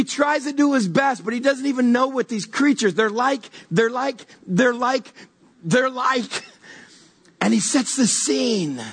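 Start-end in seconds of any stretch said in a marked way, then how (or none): 2.9-6.4 halting, repeated false starts; at a loss. Retold or imitated. John failing to describe the creatures, at a loss. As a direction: start over and break off, acting lost for words.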